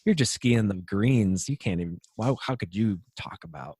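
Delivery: a soft, mocking devil's taunt; the enemy's lie. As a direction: sneer it like the tempter whispering doubt. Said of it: "the enemy would, would love us to believe".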